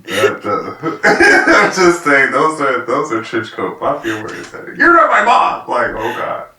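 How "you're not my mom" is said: put-on very high, loud kid's outburst; hammed-up imitation of a boy yelling; mock defiant yell. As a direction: shout it like an outraged child. Mimics the boy's yell once more.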